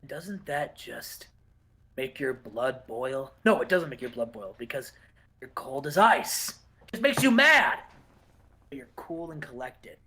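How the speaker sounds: a hint of a brooding wrestler cutting a low-key promo; Dean Malenko promo. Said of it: "And Dean's like".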